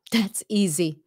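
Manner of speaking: whispered aside. Real, not acted.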